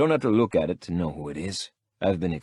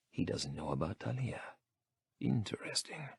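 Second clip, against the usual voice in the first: whisper; 12 dB quieter than usual. A narrator's reading. Private thought.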